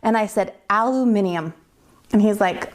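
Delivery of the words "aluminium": "Aluminium" delivered as the decisive comeback; pointed example word. Retold or imitated. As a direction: say "Aluminium" syllable by syllable. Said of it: "say one word".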